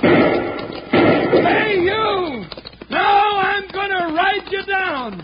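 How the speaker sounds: high, loud threatening yell; yelling at outlaws. Acted. Deputy hollers at fleeing outlaws, high and loud. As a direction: holler them down from horseback.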